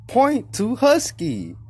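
drawn-out, slightly high host prompt; kids' show host. Acted. Streamer imitating a kids' show asking viewers, host prompt. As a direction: mimic an explorer-show host, very slow. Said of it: "Like this Dora Explorer show".

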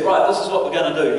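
mildly fed-up, decisive; had enough. Acted. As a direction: lay down the plan, patience spent. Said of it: "he'd had enough".

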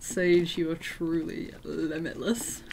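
slow, drawn-out mock tribute; oddly earnest quote. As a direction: quote it slowly, with odd weight on the praise. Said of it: "Why did you say it like that?".

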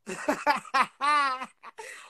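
cackling at own joke; gleeful laughter. Real, not acted. Streamer tickled by her Mister nickname, gleeful cackle. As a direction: break into a rising cackle.

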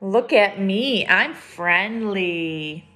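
lifted, sing-song "Look at me"; picture book read-aloud; storybook refrain. A narrator's reading. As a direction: read the refrain brightly for kids.

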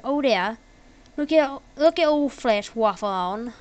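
half-hearted Australian impression; attempted Australian accent. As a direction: try a mild Aussie accent. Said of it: "an, an Australian accent".

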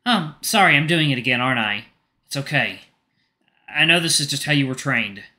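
kind, concerned friend; Rofi's voice. Acted. Rofi speaking.

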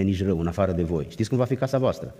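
normal talking voice

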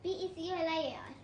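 rapid letter by letter spelling. Real, not acted. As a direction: rattle off each letter fast. Spelling bee answer. (तेज़ी से अक्षर-अक्षर spelling)

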